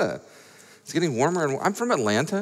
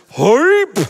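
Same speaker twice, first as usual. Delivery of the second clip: short high whooping shout; hype yell; 8 semitones higher, 6 dB louder than usual. Real, not acted. Host cueing the crowd after a donation, high hype yell.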